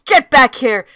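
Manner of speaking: loud boastful bellow; owl yelling. Acted. Owl yelling after the fleeing weasels, loud. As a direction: yell after them, full of bluster. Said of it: "Stonehead spotted them and yelled".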